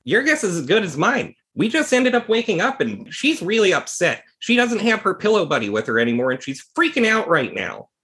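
high, anxious voice of the fretting doctor; worried doctor. Acted. GM as Hermanoidus telling Santana she's upset, high and worried.

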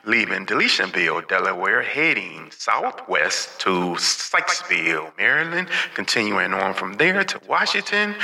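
announcer voice, calling out departures; boarding call over the station speakers; train station announcement. Pretend.

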